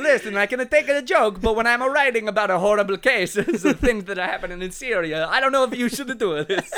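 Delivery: lightly put-on Italian accent; mild mock protest in Italian accent; little A's after words. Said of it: "put the little A's after every word".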